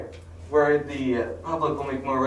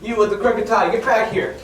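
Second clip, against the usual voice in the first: bossy shout; 5 semitones higher, 6 dB louder than usual. Acted. Brainwashed detective chasing people.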